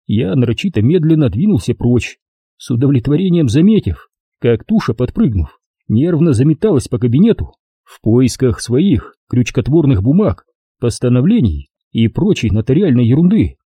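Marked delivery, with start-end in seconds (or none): none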